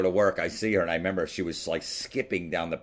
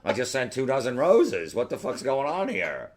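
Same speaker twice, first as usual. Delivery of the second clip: higher-pitched exasperated retelling; frustrated; 4 semitones higher than usual. Retold or imitated. Friend recounting waiting by the phone, frustrated. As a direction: play up the indignant disbelief.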